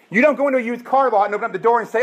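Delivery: laughing. Real, not acted. Laughing while setting up joke.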